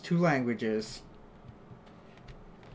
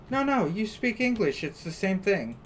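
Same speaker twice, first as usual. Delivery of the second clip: higher-pitched voice of someone insisting; mild mock insistence; 4 semitones higher than usual. People insisting to an American it's all English, mildly insistent. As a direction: lightly argue back, pitched up.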